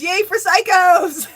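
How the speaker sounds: loud, drawn-out cheer; mock cheer. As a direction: cheer it out slowly like a rallying cry. Cheering out a viewer's comment.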